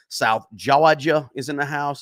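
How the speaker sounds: a light, slowed Southern US accent on Georgia. Shown as a demonstration. Greeting South Georgia viewers in the chat, playful Southern accent. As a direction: lean into a Southern drawl for the shout-out, Georgia said like Jawjuh. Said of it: "That's my, my southern accent".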